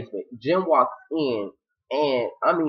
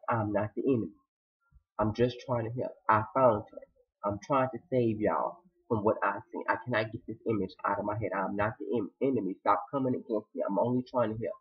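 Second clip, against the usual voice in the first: hushed, low-pitched earnest pleading; soft acted plea; 5 semitones lower, 8 dB quieter than usual. Woman telling a crying man she's trying to help, soft plea. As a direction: drop it low and soft to reassure.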